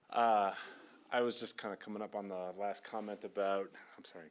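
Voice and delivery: out of breath from the stairs. Real, not acted. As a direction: talk while catching your breath. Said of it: "catching my breath at the same time".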